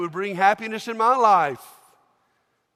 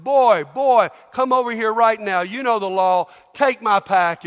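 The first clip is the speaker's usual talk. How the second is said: loud and higher, commanding; barking Roman soldier; 3 semitones higher, 8 dB louder than usual. Acted. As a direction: order him like a soldier. Roman soldier screams again.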